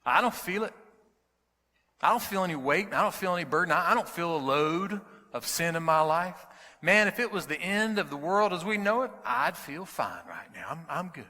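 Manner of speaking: mock heckler calling out from the crowd; a hint of a cocky young man shouting; retold shout. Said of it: "shouted out".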